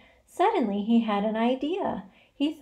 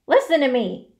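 loud, raised demand; urgent cry; 5 semitones higher, 8 dB louder than usual. A narrator's reading. Pig to disgusted rat, urgent cry. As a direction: cry out to be heard. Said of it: "cried Wilbur".

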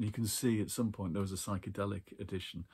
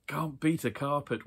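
higher and louder, wheezing through the giggles; wheezing laugh; 5 semitones higher, 5 dB louder than usual. A narrator's reading. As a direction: squeeze it out between wheezes of laughter. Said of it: "wheezed Brian".

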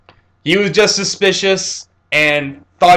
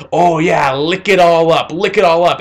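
a hammed-up gloating old hag, a bit louder; mocking old witch; 2 semitones higher, 3 dB louder than usual. Old witch gloating as he licks the toilet clean. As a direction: lean in and gloat like a nasty old woman. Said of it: "she's like".

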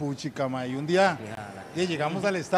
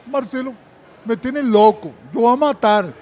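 loud, higher mock distraught outburst; retold tearful complaint; 4 semitones higher, 8 dB louder than usual. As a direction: imitate a worked-up, tearful player. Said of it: "un día llega llorando así". (imitando queja llorosa, alto y alterado)

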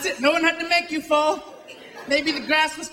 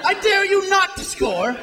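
mock shouted dare; 2 semitones higher than usual. Yelling dare at the kicker.

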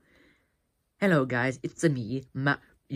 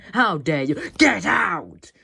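angry shout; 5 semitones higher, 8 dB louder, much slower than usual. Real, not acted. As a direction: yell get out, loud and high. Yelling at co-host again.

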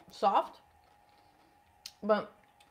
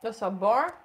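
Bobby imitation; 4 dB louder than usual. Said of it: "That was a good Bobby imitation".

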